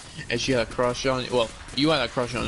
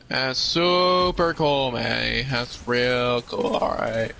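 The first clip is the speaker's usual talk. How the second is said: sarcastic; much slower than usual. Real, not acted. Sarcastic slow reply.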